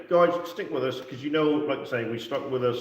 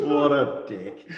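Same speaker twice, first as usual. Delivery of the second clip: laughing; much slower than usual. Real, not acted. Laughing at own joke.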